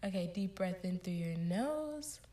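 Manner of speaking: slow, calm breathing instructions; guided breathing. Acted. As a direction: ease them through each breath. Leads breathing exercise.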